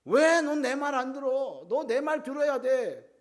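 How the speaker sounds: high, loud, drawn-out scolding; slow, emphatic quarrelling complaint; demanding spouse. Acted. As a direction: act out a husband insisting on being obeyed. Acted husband in marital quarrel.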